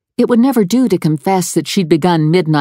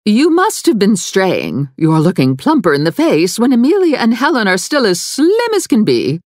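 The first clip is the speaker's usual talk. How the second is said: stern mother; 7 semitones higher than usual. A narrator's reading. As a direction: chide her daughter with cold disapproval. Mother scolds daughter's weight.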